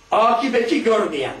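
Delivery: slow, measured recitation of "akıbeti görmeyen"; "akıbeti görmeyen" read aloud slowly and solemnly. Shown as a demonstration. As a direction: draw out "akıbeti görmeyen" in full voice. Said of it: "repeats the phrase right after".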